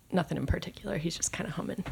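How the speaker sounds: whispered aside. Acted. Player describes quiet humming character.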